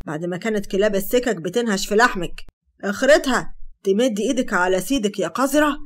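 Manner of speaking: loud, contemptuous berating; angry berating. Acted. Hatem berating Sara after the slap, loud. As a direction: tear her down.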